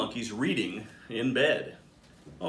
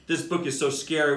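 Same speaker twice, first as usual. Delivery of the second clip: put-on lively storybook reading for kids; animated bedtime-story narrator; read-aloud narration. A narrator's reading. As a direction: read it like a picture book to a class. Principal reads picture book aloud.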